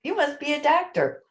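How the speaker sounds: answering the man at the checkout; high quipping reply. Retold or imitated. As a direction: toss back a quick high quip. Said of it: "And I said".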